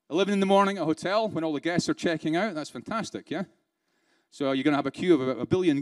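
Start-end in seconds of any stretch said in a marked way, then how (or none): 2.5-3.4 dry sarcastic praise, softer; British sarcasm. Acted. Trainer mocking a meeting at hotel checkout time, sarcastic. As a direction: throw it away as deadpan mock approval. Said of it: "That's sarcasm".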